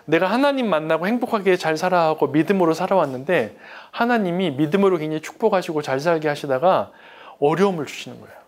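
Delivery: usual speaking voice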